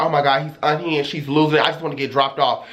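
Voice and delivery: low, prissy mock concern; mock proper dismissal. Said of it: "I started doing stuff like that".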